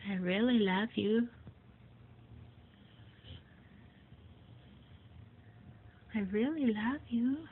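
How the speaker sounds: modelled phrase. Shown as a demonstration.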